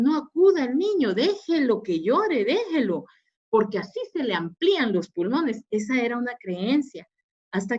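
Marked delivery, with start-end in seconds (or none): 0.0-5.6 mildly imitating a pediatrician's firm orders; old-school pediatrician. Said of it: "algunos pediatras decían". (leve imitación de un pediatra firme y autoritario)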